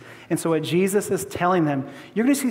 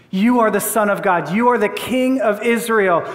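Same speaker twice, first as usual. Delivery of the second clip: amazed wonder. Acted. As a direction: voice Nathanael's amazement, lightly acted. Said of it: "Do you hear the wonder in Nathanael?".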